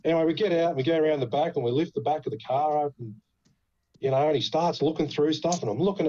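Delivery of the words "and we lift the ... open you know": ordinary delivery, nothing marked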